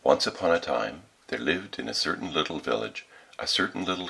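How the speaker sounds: story narration. A narrator's reading. Reads a fairy tale.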